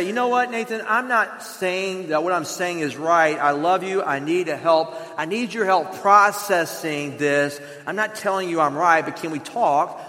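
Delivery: soft and gentle, asking for help; tender, sincere plea; wife gently asking Nathan to talk; gentle request. Shown as a demonstration. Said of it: "if you come to me trying to say".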